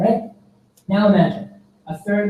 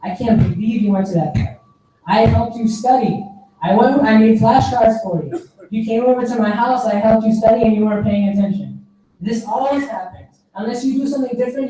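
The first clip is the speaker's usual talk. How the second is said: higher-pitched mock telling-off; scolding rant; 4 semitones higher than usual. Mutual friend scolding the crying friend, a mild higher-pitched rant. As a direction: play the fed-up friend chewing them out, but keep it light. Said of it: "starts going off on them".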